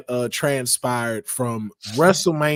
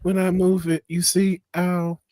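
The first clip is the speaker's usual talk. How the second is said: mock injured whine; 4 semitones higher than usual.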